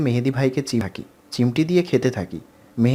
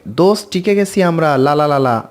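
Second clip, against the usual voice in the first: shouting; 2 semitones higher, 4 dB louder than usual. Acted. Friend yelling news of getting in, a joyful shout. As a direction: yell the good news. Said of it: "চেঁচামেচির আওয়াজ আসে".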